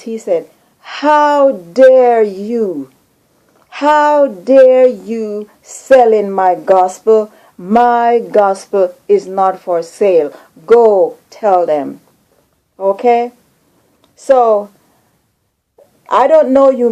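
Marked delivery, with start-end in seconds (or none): 0.8-12.0 slow, drawn-out retold rebuke of the ministers; loud rebuke. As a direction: voice Jesus scolding, very slowly and gravely. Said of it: "he spoke in a loud voice".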